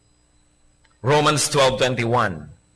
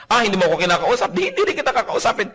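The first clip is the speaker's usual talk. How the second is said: mocking sulk; 5 semitones higher, faster than usual. Mimicking sulking spouse.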